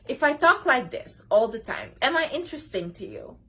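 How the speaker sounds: a dull, lifeless demo of talking; deliberately unengaging, creepy read; creepy delivery. Shown as a demonstration. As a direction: show how boring speech sounds. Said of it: "No, it's kinda creepy".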